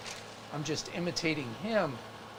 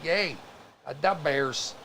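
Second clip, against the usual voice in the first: hammed-up Chicago accent; caricature Chicago accent; slower than usual. Showing how everybody mimics Chicago, caricature accent. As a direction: parody a Chicago Bears fan's accent. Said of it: "which is a caricature".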